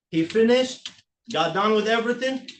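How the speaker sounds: rising, aggrieved complaint; whiny tv court complaint. Real, not acted. Defendant protesting to the judge.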